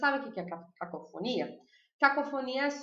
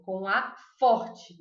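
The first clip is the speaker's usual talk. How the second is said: louder, drawn-out "A forte"; stress on A; 4 semitones lower, 5 dB louder, much slower than usual. Shown as a demonstration. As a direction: lean hard on "A forte", slowly. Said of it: "começam com A tônico".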